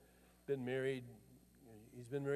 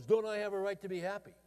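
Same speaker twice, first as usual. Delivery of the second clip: louder, insistent retold protest; defiant demand; 5 semitones higher, 6 dB louder than usual. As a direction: throw the question back hard. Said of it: "his whole response was".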